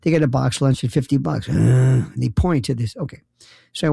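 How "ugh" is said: vacant living-dead groan; zombie groan. Retold or imitated. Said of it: "It's like Night of the Living Dead".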